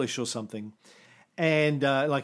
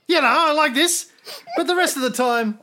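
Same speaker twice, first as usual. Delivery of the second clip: loud high booming host voice; podcast voice; 11 semitones higher, 5 dB louder than usual. Shown as a demonstration. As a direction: belt it like a radio host. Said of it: "this is my podcast voice".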